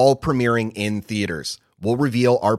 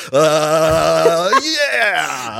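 excited yelp; 5 semitones higher, 5 dB louder than usual. Retold or imitated. Imitating wife's joyous reaction.

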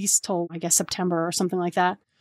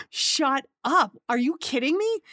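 excited disbelief; 6 semitones higher than usual. Retold or imitated. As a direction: blurt it out like news too good to be true. Friend offers her apartment.

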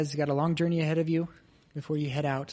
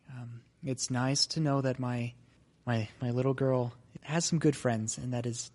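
mom's voice; 3 semitones lower than usual. Acted. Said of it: "Henley's mom says".

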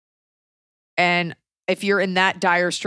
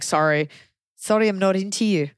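put-on a light, half-hearted South African accent. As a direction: brush him off gently in a mild South African accent. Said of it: "That was my South African accent".

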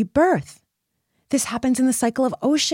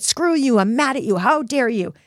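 mock anger; 3 semitones higher than usual. Shown as a demonstration. Example of writing angry words to an abuser: mild mock anger. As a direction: read out an angry note to someone. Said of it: "You get it out on paper".

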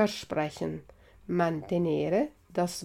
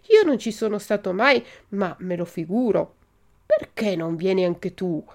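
animated storybook reading with acted dialogue; story narration; 2 semitones higher, 4 dB louder, faster than usual. A narrator's reading. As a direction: read the dialogue out with lively, rising questions. Reads Pinocchio chapter aloud. (lettura animata di una fiaba)

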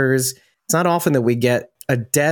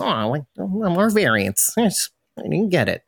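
mock whiny fan; 6 semitones higher than usual. Mocking fans wanting variants.

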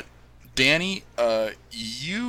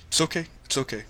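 comforting dad; 5 semitones higher, 4 dB quieter, faster than usual. Acted. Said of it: "puts his arms around you".

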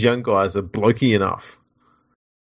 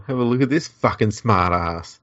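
mock promo voiceover; slower than usual. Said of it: "voiceovers for the pregame things".

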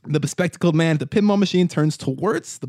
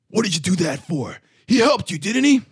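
indignant raised-voice protest; yelling; 5 semitones higher, 4 dB louder than usual. Acted. Grant Michael Smith to the bald man after the killing, yelling. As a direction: yell it as a shocked, higher-pitched challenge. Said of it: "Grant Michael Smith yells".

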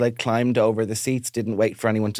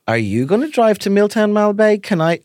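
desperate plea; 9 semitones higher, 5 dB louder than usual. Retold or imitated. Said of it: "And I'd be like".

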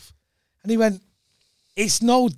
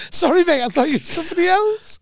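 high, loud mock apology; imagined famous rock singer; 13 semitones higher, 4 dB louder than usual. Comedian imagining a star apologising to a stranger, hammed-up apology. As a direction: exclaim it in a raised, put-on voice. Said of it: "Imagine some bloke turning round and nodding old that's going".

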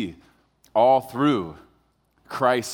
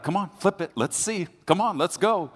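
higher teasing goad, imitating his wife; mock taunting wife; 6 semitones higher than usual. Husband imitating wife egging him on, light teasing goad. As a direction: needle him to flip the switch.

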